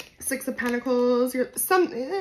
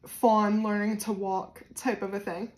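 Jersey accent. Real, not acted. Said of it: "I totally heard my Jersey accent in that".

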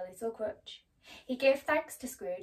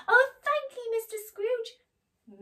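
high, loud then slow thanks; Bob's gratitude; 13 semitones higher, 10 dB louder, slower than usual. Acted. Bob Cratchit thanking Scrooge for the pay rise, high and slow. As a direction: thank him, overcome. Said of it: "Bob overwhelmed with gratitude".

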